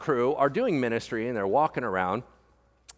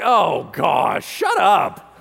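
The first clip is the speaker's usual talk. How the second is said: loud, higher fed-up yell; mock annoyed shout; 5 semitones higher, 10 dB louder, much slower than usual. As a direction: snap it back, fed up. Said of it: "they're like".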